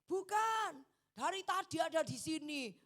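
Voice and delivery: high, loud denial; loud protest. Retold or imitated. Young men defending the parked couple, loud quick protest. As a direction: jump in to contradict the crowd. Youths protesting to accusing crowd.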